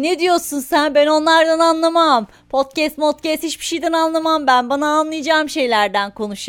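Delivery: put-on Romani accent. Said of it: "roman şivesiyle falan konuşuyor".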